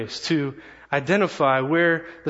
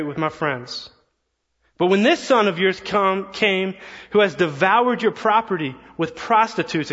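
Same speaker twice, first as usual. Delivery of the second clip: angry son; 3 semitones higher than usual. Acted. Older brother bitterly accusing his father, raised and angry. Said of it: "The older brother in the story responds angrily".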